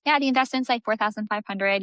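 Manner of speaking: offhand and easy, no big deal; casual price mention. Shown as a demonstration. Salesperson telling a client the price, casually. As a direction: toss out the price lightly. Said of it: "we just wanna be casual about it".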